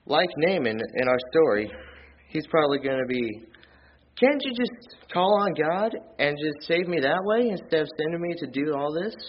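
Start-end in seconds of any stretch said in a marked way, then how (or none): 4.2-9.2 mock indignant protest. Would-be convert balking at all the steps, mock indignant. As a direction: act out a mildly outraged would-be convert. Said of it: "So he went in rage too".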